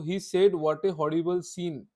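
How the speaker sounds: slow, deliberate reading of the example; slow dictation. Shown as a demonstration. Teacher reading the example sentence slowly. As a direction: read it out slowly for the class. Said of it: "ये वाला देखो".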